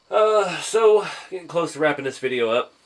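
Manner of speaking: stuffy nose after sneezing; talking through the nose; nasal voice. Real, not acted. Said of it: "I sound like I'm talking through my nose".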